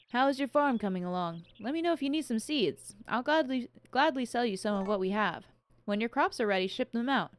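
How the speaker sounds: shopkeeper voice. Acted. Reading shopkeeper dialogue aloud.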